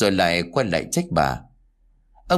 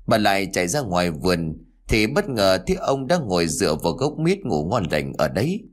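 ordinary delivery

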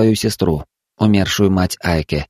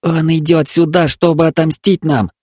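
near tears; 7 semitones higher than usual. Acted. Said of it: "чуть не разрыдался Айка".

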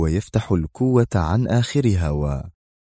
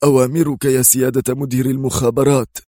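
high, firm military response; decisive, strong; 6 semitones higher than usual. A narrator's reading. Security chief answers the intelligence director, decisive and strong. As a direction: report for orders firmly, pitch raised. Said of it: "بلهجة حاسمة وصوت قوي".

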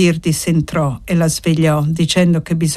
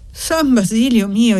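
a shocked cry to the saint, pitched up; startled exclamation; 4 semitones higher than usual. Acted. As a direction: gasp out the saint's name in alarm. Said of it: "esclamò l'altra". (esclamazione sorpresa)

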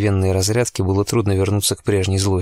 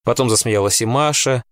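ordinary delivery, nothing marked

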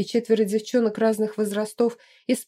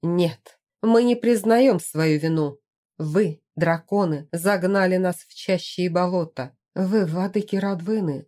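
defiant cry. Acted. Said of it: "выкрикнула, будто плевок в лицо".

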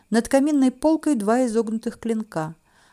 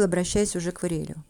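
usual speaking voice

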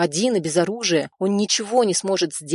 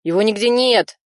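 raised voice, burglar alarmed; shout; 4 semitones higher, 4 dB louder than usual. A narrator's reading. Burglar shouting to his partner that the owner is gone. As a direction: call out louder, a little higher. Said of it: "крикнул он".

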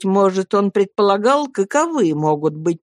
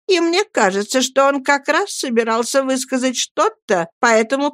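lightly voiced haughty woman, pitch raised; offended Miss Murdstone; 5 semitones higher than usual. Miss Murdstone yields the point to her brother, mildly offended. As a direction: concede with wounded irony.

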